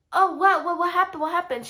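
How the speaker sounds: tag. Retold or imitated. Caught laughing, daughters ask what happened.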